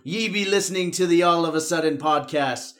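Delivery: hearty pirate captain greeting. Pretend. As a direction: ham up the pirate talk. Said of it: "like, a pirate podcast?".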